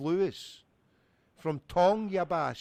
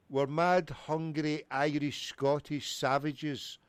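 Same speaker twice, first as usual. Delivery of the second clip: slower, lower, word by word; slowed-down explanation; 3 semitones lower, slower than usual. Pretend. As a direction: spell it out slowly for someone who missed it. Repeats himself for a listener who missed it.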